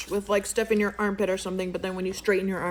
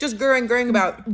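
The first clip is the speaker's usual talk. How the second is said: playful gurring; 3 semitones higher, 6 dB louder than usual. Shown as a demonstration. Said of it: "you acroing about with those things".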